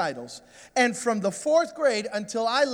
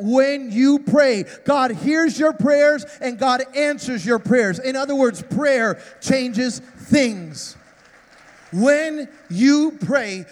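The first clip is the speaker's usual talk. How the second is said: slow, weighty preacher's cadence; emphatic preaching; 3 semitones higher, 4 dB louder, much slower than usual. Acted. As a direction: preach it slowly, punching the key words. Preaching at full force.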